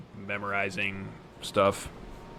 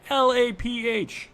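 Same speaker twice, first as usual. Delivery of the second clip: high, slow spelled-out letters; high drawn-out spelling; 13 semitones higher, 4 dB louder, slower than usual. Shown as a demonstration. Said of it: "We've said that too many times".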